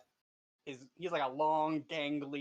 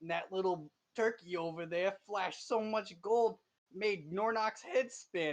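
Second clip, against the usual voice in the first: 1 kobold voice; 4 semitones higher than usual. Acted. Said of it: "he tells you".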